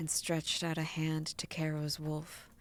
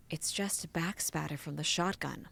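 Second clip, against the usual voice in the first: calm him down gently; soothing. Acted. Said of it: "in her most soothing voice".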